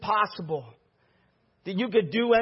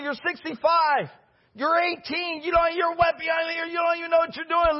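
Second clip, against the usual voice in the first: mock scoffing shout; 5 semitones higher than usual. Preacher voicing scoffing critics.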